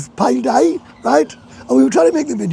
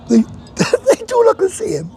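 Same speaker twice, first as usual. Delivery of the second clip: laughing; 12 semitones higher than usual. Real, not acted. Cracks up repeating the remark.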